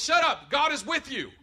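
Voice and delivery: loud, high, dismissive voice of the mind; the mind talking. Retold or imitated. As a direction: brush off the emotions bluntly. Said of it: "And the mind goes".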